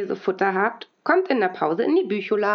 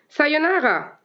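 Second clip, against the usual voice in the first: bright, raised call of greeting; cheerful call; 6 semitones higher, 3 dB louder than usual. A narrator's reading. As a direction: call it out happily. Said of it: "ruft sie fröhlich". (fröhlich gerufen)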